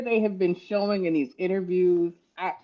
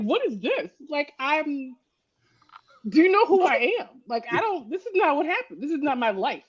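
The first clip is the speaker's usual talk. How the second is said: mock crying queen; 7 semitones higher than usual. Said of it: "So when she cried".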